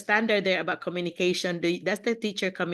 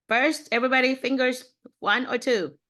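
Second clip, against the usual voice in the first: eager poll; 6 semitones higher than usual. Real, not acted. Polling the class.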